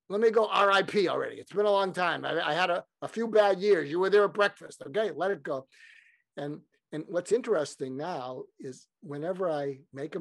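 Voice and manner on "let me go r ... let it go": put-on weary, impatient Brooklyn accent; Larry King. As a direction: plead to be left alone, Brooklyn accent. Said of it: "in his Brooklyn accent".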